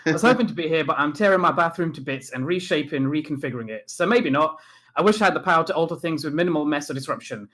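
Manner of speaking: put-on lively Leicester accent. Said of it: "I'll do it in Leicester accent".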